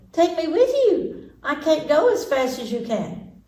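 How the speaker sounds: high, slow pleading frog; high slow frog plea. Acted. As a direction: beg her to wait. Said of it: "cried the frog".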